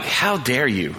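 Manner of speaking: understated retold disapproval, at ordinary pitch; mild disgust. Pastor judging a wealthy man at the altar, retold mild disgust.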